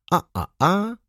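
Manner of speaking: high startled cry; surprised exclamation. A narrator's reading. Baron startled on seeing the lady, crying out. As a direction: gasp it out as the glasses fall. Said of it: "zawołał".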